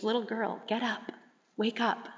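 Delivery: soft, gently coaxing voice; gentle waking. Retold or imitated. Jesus to the girl as he takes her hand, gently waking her. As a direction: softly rouse a sleeping child.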